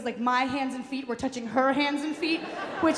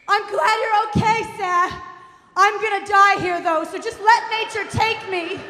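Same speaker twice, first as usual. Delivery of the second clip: high, loud melodramatic wail; screaming mother; 7 semitones higher, 5 dB louder than usual. Retold or imitated. Mother giving herself up to nature, high hammed-up scream. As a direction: imitate a mother hollering her last words. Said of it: "she's screaming".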